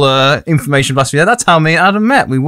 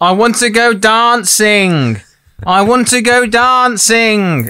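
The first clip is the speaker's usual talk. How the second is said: put-on very drawn-out, high, slow drunken calling; 7 semitones higher than usual. Quoting what a friend always shouts when they drink, imitating Lewis drunk. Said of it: "One of his biggest quotes when he's drunk".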